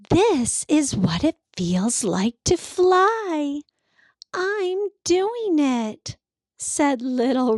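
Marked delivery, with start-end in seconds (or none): 0.1-6.2 small sled proudly flying, voiced high with joy; bursting with pride. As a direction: savour the flight, proud and thrilled. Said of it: "her heart bursting with pride".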